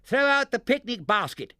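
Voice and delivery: high, loud urgent yell. A narrator's reading. Barnaby's father ordering the basket overboard, loud yell. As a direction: yell the order over the wind. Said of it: "yelled Barnaby's father".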